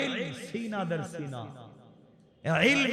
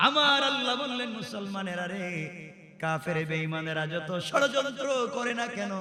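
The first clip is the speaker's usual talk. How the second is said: slow chanted sermon delivery; melodic preaching; 6 dB louder, slower than usual. Acted. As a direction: draw out the line endings in a preacher's singsong.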